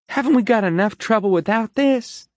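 high, loud pleading; upset cry. A narrator's reading. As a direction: beg them to quit fighting. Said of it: "Iris cried".

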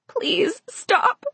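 put-on high, pleading girl's voice; frightened plea. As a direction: beg in a small high voice. Girl begging while held down.

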